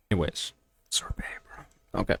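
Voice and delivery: soft, breathy aside under his breath; whisper. Real, not acted. Grumbling to himself about melted sorbet, whispered. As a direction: whisper it to yourself, defeated.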